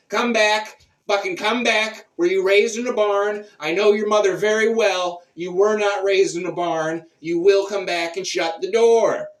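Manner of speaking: loud, high scolding yell down the corridor; hollering. Retold or imitated. Socrates yelling at the senile guard to shut the door, loud and high. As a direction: bellow at the old guard like a fed-up parent. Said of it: "I holler at him".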